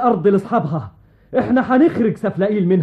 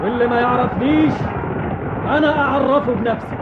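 roaring tyrant king; 2 semitones higher than usual. Acted. King challenges the enemy army.

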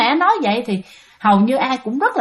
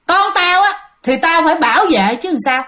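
retold mother's outburst; 5 semitones higher than usual. Mother suddenly cries out to the kids, mock yell. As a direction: retell the mother crying out, half-acted. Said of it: "tự nhiên mẹ la lên".

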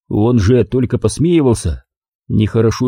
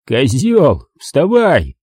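irritated thug; 3 semitones higher, much slower than usual. Acted. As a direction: snap at the intruder. Thug orders narrator.

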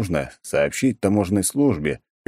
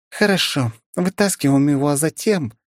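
higher voice, stopping abruptly; cut off mid word; 9 semitones higher than usual. A narrator's reading. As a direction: break off mid sentence. Замолчала на полуслове.

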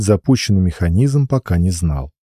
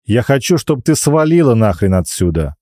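barking; 4 semitones higher than usual. Acted. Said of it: "рявкнул он".

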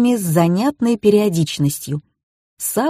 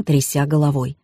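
plain reading voice

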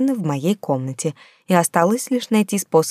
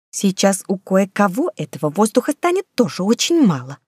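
menacing hiss; 3 semitones higher than usual. Acted. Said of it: "угрожающе прошипела Эдана".

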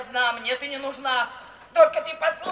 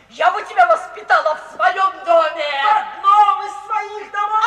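loud, laughing shouted outburst; furious shout; 6 semitones higher, 9 dB louder than usual. Acted. Mother shouting at her ungrateful daughter, loud bitter laugh. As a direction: shout it, half-laughing with rage.

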